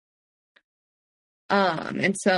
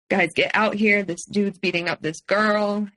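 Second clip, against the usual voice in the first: retold yell. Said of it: "he yells at his friends".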